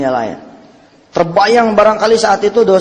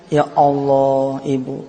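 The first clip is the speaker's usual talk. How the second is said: mock sobbing; 5 semitones lower, 3 dB quieter, much slower than usual. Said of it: "nangis sesenggukan dia".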